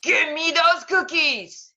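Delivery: high, loud, slow demand; snatch at the cookies with a high squawk; greedy bird squawking for cookies; greedy vulture. Acted. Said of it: "said another".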